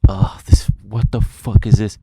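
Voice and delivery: loud, alarmed burst of disbelief; loud retold panic; panicked outburst. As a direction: blurt it out in panic at the phone.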